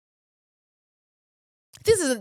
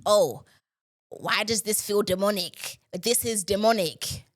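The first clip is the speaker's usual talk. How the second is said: a lightly voiced mocking commenter, a bit lower; sneering impression of a pious commenter; 3 semitones lower, 3 dB quieter than usual. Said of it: "comment some dumb shit like".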